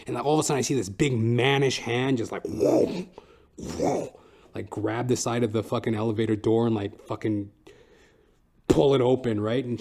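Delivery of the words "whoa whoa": usual speaking voice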